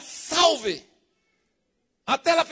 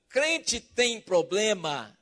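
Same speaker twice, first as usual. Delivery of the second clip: usual speaking voice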